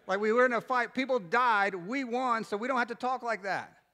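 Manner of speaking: high, loud mock outrage; loud, worked-up patriotic protest; comic indignant rant. Real, not acted. Comic rant against archaic English.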